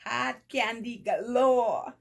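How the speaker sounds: loud, high, drawn-out delight; excited exclamation. Real, not acted. Vlogger exclaiming over gifted candy, delighted.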